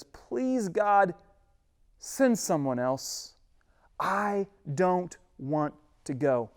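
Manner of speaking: slow pleading whine; whiny crybaby Moses. Acted. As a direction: beg like a reluctant child. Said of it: "pinnacle of crybabiness".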